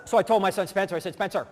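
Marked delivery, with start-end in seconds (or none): 1.1-1.5 lightly acted no-nonsense father; D dad mode. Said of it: "I was in D dad mode".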